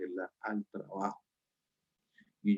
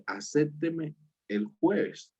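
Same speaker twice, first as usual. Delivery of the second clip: slow, higher drawn-out plea; pleading request; 5 semitones higher, much slower than usual. Retold or imitated. Teacher in role begging the student for a Thursday date. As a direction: stretch it out, coaxing her. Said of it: "yo le digo a ella".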